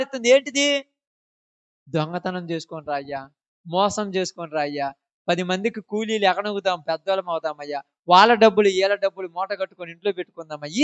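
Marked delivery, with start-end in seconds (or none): 1.9-10.8 mock tempter. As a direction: coax them into stealing, sly and hushed. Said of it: "ఈ సలహాలు ఇచ్చింది ఎవరు".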